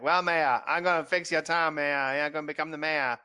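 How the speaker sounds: lightly imitated weird TV-character accent. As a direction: mimic a councilman's odd accent. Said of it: "with that weird accent where he's like".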